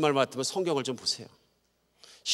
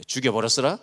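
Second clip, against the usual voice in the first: Jeolla dialect with a rising end; comic Jeolla accent demo; 3 dB louder than usual. Shown as a demonstration. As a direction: say it as a Jeolla local would. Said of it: "전라도 분들은요".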